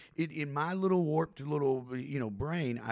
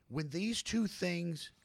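slow, higher, each phrase set apart; baffled frustration; 6 semitones higher, slower than usual. Real, not acted. Man torn between two beliefs, slow exasperated bafflement. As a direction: plead your confusion point by point. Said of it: "I'm frustrated. I'm confused".

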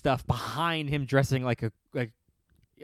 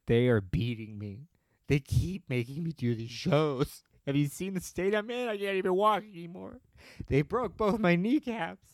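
lightly acted pleading; a hint of a desperate captive; mock cry for help; 3 semitones higher than usual. Singer as prisoner begging the audience, mock pleading. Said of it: "it's a cry for help".

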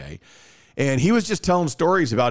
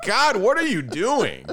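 high, slow, laughing disbelief; incredulous laughing groan; laughing exasperation; 10 semitones higher, slower than usual. Retold or imitated. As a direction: cringe through a laugh, pitch way up. Exasperated reaction to DJ.

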